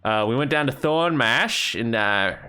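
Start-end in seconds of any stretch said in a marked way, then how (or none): 0.7-1.8 Thornmash in an Australian accent, Thorn-mash. Shown as a demonstration. Recapping the trip for chat, Thornmash in an Australian accent. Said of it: "I have to say Thornmarsh with an Australian accent".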